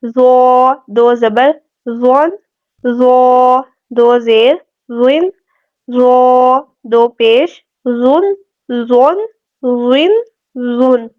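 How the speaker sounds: slow drill, زو held long and thick; full heavy dhaa. Shown as a demonstration. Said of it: "پورا اور موٹا پڑھا جائے گا". (زو پورا اور موٹا)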